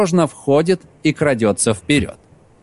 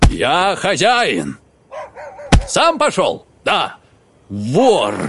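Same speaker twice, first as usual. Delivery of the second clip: shouting; 2 semitones higher, slower than usual. Acted. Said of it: "Костылёв кричит".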